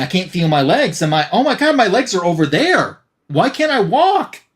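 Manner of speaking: a hammed-up rising fright, not a real scream; panicked head. Severed head realizes his legs are gone, mock panicked.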